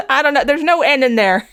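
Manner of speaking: laughing at her own joke; laughing loudly. Real, not acted. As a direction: crack up while talking. Loud laugh heard.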